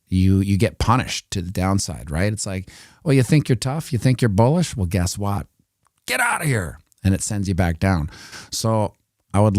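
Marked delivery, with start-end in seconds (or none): 3.0-6.8 mocking, sneering taunt with a high squeal at the end; taunting market voice. The market mocks a bullish trader, sneering taunt. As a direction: taunt the trader like a schoolyard bully.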